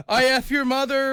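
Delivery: imitated angry scammer. Scammer swearing back at a prank caller, mock angry. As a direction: bark back like a furious scammer. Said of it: "then they go".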